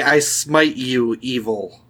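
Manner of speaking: paladin voice. Shown as a demonstration. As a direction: proclaim it like a holy knight. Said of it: "Say, say".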